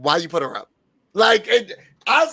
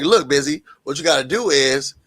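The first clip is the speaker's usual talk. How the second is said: soft mentor advice; 3 semitones lower, 3 dB quieter than usual. Retold or imitated. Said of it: "she was like".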